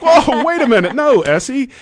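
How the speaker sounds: loud, high retold cry of alarm; acted alarm. Dad retelling stopping baby from mouthing cable, acted alarm. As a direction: re-enact an urgent, high-pitched stop.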